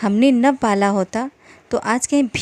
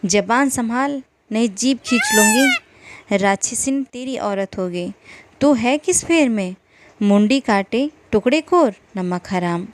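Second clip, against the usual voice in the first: sharper, angrier. Acted. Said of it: "धनिया और भी तेज हुई".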